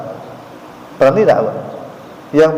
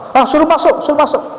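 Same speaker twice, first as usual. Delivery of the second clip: the Prophet's voice; 9 semitones higher than usual. Acted. The Prophet bids him enter.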